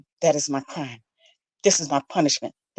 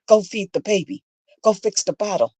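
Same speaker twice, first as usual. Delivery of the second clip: loud, higher barked orders; father yells; 4 semitones higher, 3 dB louder than usual. Retold or imitated. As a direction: bark commands at the girl. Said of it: "Her father yells at me".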